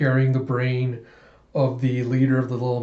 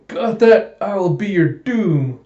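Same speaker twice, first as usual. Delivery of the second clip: raised, hammed-up pronouncement of doom; mock villain threat; 6 semitones higher, 5 dB louder than usual. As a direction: threaten like a pompous cartoon villain.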